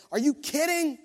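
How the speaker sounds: mock them as too important; scoffing disciples. Disciples brushing off the blind beggar, scornful sing-song.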